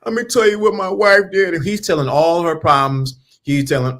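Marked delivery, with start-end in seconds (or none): 0.0-1.5 higher sappy lover voice; mocking voice of a smitten man; mock smitten simp. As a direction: ham up a lovesick man pouring his heart out. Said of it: "he's like".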